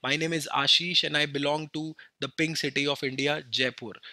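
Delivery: slow, proud-but-calm introduction ending on the city; slow, clear introduction. Shown as a demonstration. Teacher to students, modelling a slow, clear introduction. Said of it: "adjective लगा के भी बोल सकते हैं".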